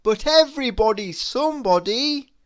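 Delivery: high, loud protest; emphatic astonished character voice; exclaiming. A narrator's reading. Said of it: "exclaimed Mister Happy".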